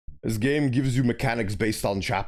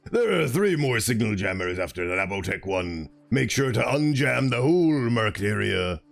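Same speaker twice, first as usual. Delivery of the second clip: game character voice. Acted.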